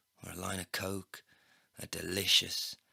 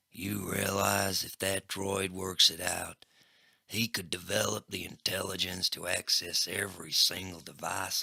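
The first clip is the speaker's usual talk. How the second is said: menacing gangster; 3 dB louder than usual. Acted. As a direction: lean in and threaten. Crackjaw menacing.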